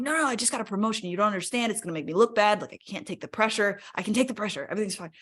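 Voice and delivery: insistent protest. Retold or imitated. Arguing against time off.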